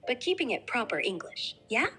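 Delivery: put-on Colombian-accented English; flirty paisa accent, speaking English; English with a lilting Colombian accent; Medellín accent in English. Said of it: "Speak with an English, English but the Medellin accent".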